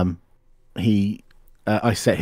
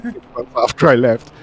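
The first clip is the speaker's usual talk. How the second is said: usual speaking voice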